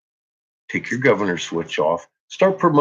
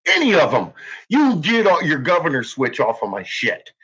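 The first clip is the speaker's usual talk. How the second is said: raised, heated threat with swearing; furious threat; 6 semitones higher than usual. Real, not acted. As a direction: threaten them in real anger. Angry demand.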